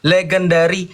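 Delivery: "Legendary" drawn out slowly; deliberate, stretched reading; slow reading aloud. Shown as a demonstration. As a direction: read the word out slowly for the listener. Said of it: "Kamu baca tuh pelan-pelan".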